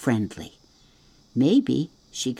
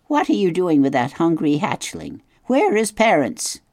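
lightly voiced scolding goose; a mild squawk of an alarmed goose; old goose voice, a touch fussy; 4 semitones higher, 3 dB louder than usual. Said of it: "squawking to the robot".

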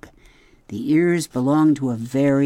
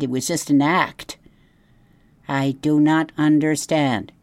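a hint of a proud, theatrical opossum; lightly voiced opossum. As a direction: play the show-off opossum, lightly. Opossum character voice.

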